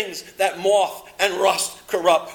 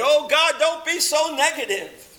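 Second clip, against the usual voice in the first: high, whiny mock protest to God; mock complaint; 8 semitones higher than usual. Preacher mocks complaining listener, whiny protest. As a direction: complain to God in a put-on whine.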